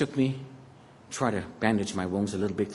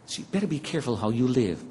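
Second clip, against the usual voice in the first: ordinary talk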